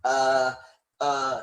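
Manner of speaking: drawn-out um and uh; hesitant fillers. Shown as a demonstration. Teacher showing learners broken fluency, hesitant. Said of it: "if you have to stop and go".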